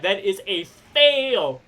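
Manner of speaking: slow, drawn-out announcement; dramatic verdict. Real, not acted. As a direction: stretch out the final word for effect. Game master announces a failed roll.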